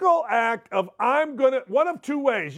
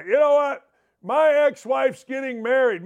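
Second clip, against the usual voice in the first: angry rant; 5 semitones higher than usual. Retold or imitated. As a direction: vent like a fed-up groom. Voicing angry groom.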